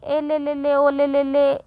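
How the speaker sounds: lisping coo at a baby, half played; cooing baby talk like doting parents; mock baby talk. Shown as a demonstration. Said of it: "ऐसे करेंगे या तुतलाकर बात करेंगे". (तुतलाकर बच्चे से हल्की बात)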